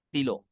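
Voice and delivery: teacher models "stilo" the French way, not "stylo". Shown as a demonstration. Teacher drilling students on a word, clear French "stilo". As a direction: say "stilo" with a crisp French i, no English y sound. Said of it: "not stylo".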